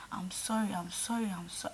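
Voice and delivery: whispering. Retold or imitated. Retold apology, whispered.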